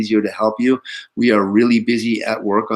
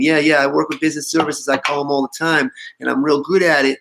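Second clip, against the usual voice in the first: higher-pitched retold New York accent; 4 semitones higher than usual. Boss imitating a New York caller for his team, mock New York accent. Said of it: "he's talking with this New York accent".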